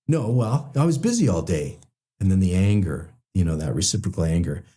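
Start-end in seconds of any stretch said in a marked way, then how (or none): 0.1-1.8 defensive. Retold or imitated. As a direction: pitch jumps up, sharp defensive retort. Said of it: "when we start getting defensive".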